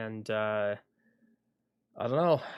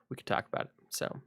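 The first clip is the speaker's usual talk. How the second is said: whisper; 2 semitones higher, 3 dB quieter, faster than usual. Real, not acted. Trailing aside to viewers.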